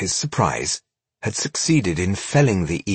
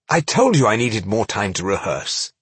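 groaning. Acted. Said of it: "Rodario groaned".

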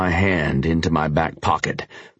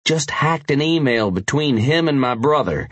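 urgent biker voice; 8 semitones higher than usual. Acted. Tanner's voice, urgent.

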